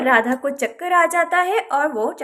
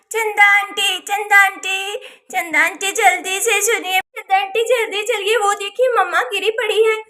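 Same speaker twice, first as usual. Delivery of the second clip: urgent calling; 3 semitones higher than usual. Acted. Child calls neighbour for urgent help.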